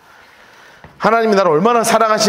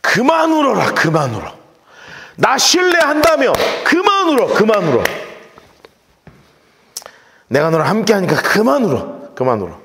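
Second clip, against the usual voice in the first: God's comfort. Acted. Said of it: "그 뜻입니다".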